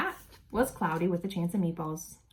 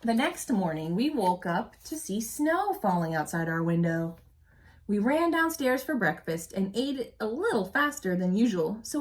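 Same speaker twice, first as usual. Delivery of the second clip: storybook narration for a class; expressive read-aloud story voice; reading aloud to children; 4 dB louder than usual. A narrator's reading. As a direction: read it like a teacher sharing a picture book. Reading picture book aloud.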